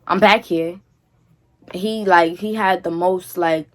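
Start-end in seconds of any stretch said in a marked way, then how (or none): 0.0-0.8 retold scream. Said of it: "So I screamed".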